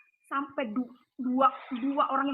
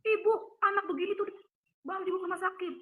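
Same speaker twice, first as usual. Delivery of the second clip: mild, higher-pitched telling-off; lightly acted reproach, pitched up; retold scolding; 5 semitones higher than usual. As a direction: imitate a health worker scolding a mother. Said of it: "mama saya diomelin".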